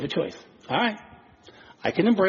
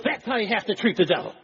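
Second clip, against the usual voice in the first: laughing quote; 5 semitones higher than usual. Retold or imitated. Preacher retelling Wigglesworth's punchline, laughing. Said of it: "And Smith Wigglesworth says".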